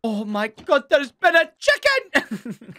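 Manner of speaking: drawn-out, rising mock horror; mock dramatic shock. Player spotting the chicken, mock-dramatic gasping announcement. Spoofs the murder catchphrase.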